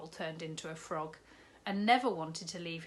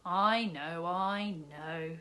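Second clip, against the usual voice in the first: kindly; 5 dB louder, much slower than usual. Acted. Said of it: "said the kindly man".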